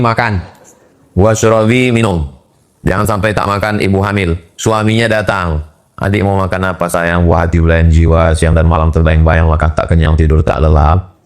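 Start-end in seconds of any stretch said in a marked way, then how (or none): 5.9-11.1 mock husband's voice. Husband and wife voiced in story.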